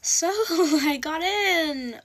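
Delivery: drawn-out embarrassed giggle; awkward laugh. Retold or imitated. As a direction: laugh nervously while breaking the news. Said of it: "Books and I'm like".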